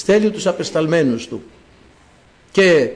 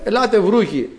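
high-pitched acted call; 5 semitones higher than usual. God summoning the reptiles, calling out. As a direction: summon them with raised pitch, not shouting. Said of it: "Φωνάζω".

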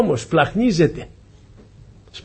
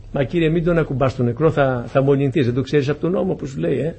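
softer, lightly voiced cautioning aside; mild mock objection; 2 semitones lower, 6 dB quieter than usual. Objector warning the Lord about the dead, hushed mild protest.

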